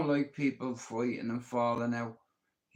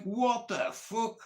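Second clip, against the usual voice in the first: higher, slow, stunned What the fuck; stunned disbelief; 7 semitones higher, slower than usual. Retold or imitated. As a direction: let it drop out in slow disbelief. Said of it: "I'm like".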